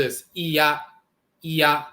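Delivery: iya, ee-ah run together; pronounced iya. Shown as a demonstration. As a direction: blend ee into ah for iya. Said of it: "when you put E for the I and at together".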